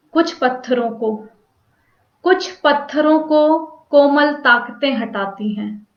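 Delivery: measured poetry reading with pauses between phrases; deliberate, phrase-by-phrase poem delivery; poem recitation. Acted. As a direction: recite verse line by line, letting each phrase fall at its end. Recites her short poem.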